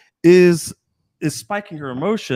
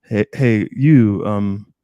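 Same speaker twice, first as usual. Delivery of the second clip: low, halting approach with hesitations; meek and timid; 4 semitones lower, 5 dB louder, slower than usual. Retold or imitated. Nervous guy approaching girls on guard, meek and timid. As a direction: imitate an unsure guy stumbling through his opener. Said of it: "they come in very meek and timid".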